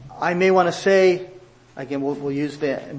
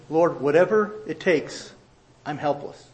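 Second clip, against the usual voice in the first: humble prayer. Retold or imitated. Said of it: "we say".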